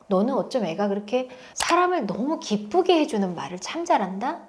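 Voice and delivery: soft, gentle praise; a hint of tender admiration for the pupil; lightly voiced caring teacher. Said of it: "이렇게 다가가잖아요".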